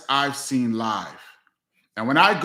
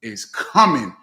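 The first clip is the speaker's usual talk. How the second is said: imitating Chris; 4 dB louder than usual. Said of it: "He said".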